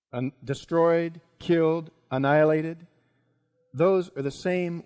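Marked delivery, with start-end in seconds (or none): 0.1-2.9 measured echo, word by word; dawning recognition. Acted. Haman recognising words from his own edict, halting echo. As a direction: repeat each word separately, with pauses between.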